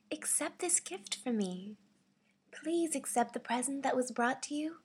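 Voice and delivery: gentle, kindly plea with lilting tune; kindly, sweet. Shown as a demonstration. Voice actor auditioning a gift-offering line, kindly and sweetly. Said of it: "This is my kindly, sweetly voice".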